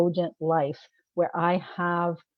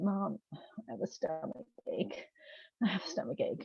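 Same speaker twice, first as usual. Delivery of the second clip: put-on child complaining; 10 dB quieter than usual. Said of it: "and they said".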